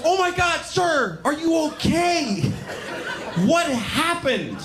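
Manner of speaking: mock-frantic southern girl cry; frantic concerned woman. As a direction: play the horrified sweet girl shouting in alarm. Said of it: "She goes".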